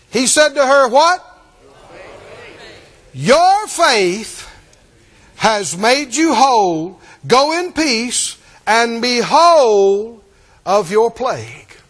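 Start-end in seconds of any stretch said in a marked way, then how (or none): 3.1-11.8 slow blessing. Acted. Jesus blessing the healed woman.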